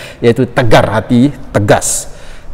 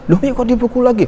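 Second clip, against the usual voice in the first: very high-pitched imitated child's disbelief; startled protest; 12 semitones higher, 4 dB quieter, faster than usual. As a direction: act a child taken aback. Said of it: "Kaget saya".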